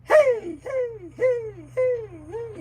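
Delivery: high loud hey calls bouncing round the cab; echoing hey. Shown as a demonstration. Showing the echo in the truck cab, high loud calls. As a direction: call out hey to hear it echo. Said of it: "you can echo".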